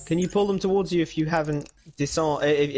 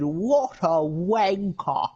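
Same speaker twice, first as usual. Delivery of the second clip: quoting the Joker; 4 semitones higher, much slower than usual. Retold or imitated. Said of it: "Joker said".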